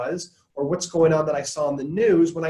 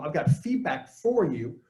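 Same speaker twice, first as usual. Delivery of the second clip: slow, flat announcement of feedback; an unwelcome feedback line; blunt unasked feedback; slower than usual. Shown as a demonstration. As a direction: lay the feedback on them bluntly. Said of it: "So to go from".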